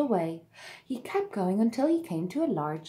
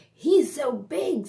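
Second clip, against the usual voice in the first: slow, loud hen voice; squawking hen; 8 semitones higher, 6 dB louder, slower than usual. A narrator's reading. Hen jeering at the big duckling, squawking. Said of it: "squawked the hen".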